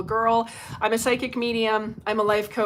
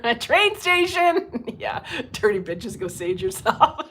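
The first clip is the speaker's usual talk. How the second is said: laughing; 3 dB louder, slower than usual. Real, not acted. Laughing at troll retort.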